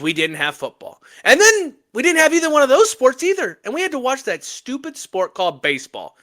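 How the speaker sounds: ladies-and-gentlemen rally call to the listeners; hype announcer speech. Acted. Host kicking off the NFL segment for the audience, mock hype announcer. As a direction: pump the crowd up like a mock master of ceremonies. Hosts a hype intro for football.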